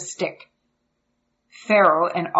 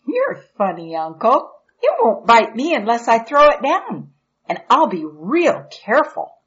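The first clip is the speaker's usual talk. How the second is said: put-on curious young boy asking; eager little boy; 3 semitones higher, 3 dB louder than usual. Boy chatting with uncle.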